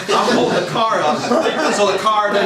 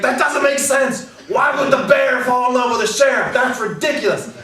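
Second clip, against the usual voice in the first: higher, indignant mock shout; mad rant; 8 semitones higher than usual. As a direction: rant like a furious friend. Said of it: "Glenn got so mad".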